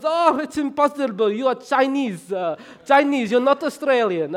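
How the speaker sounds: hammed-up shopkeeper waving away the claim; disbelieving shopkeeper. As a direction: flatly refuse to believe it, loud and emphatic. Shop owner's disbelief, acted.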